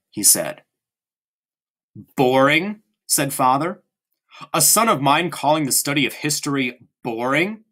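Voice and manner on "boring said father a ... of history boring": a father appalled by his son's word; rising disbelief at the word boring; incredulous father. Acted. Father to Bruno, mildly incredulous and rising.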